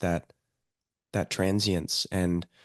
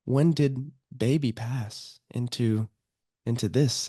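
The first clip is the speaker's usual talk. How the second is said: higher, slow marvelling question; mother marvels at her toddler's new skills; amazed parent; 6 semitones higher than usual. Retold or imitated. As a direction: wonder at how fast the baby grew. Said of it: "It's like".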